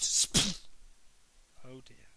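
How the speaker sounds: hushed aside. A narrator's reading. Narrator aside.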